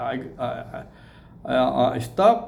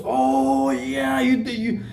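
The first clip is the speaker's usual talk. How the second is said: retold surprise; 10 semitones higher, much slower than usual. Recognizes him from YouTube.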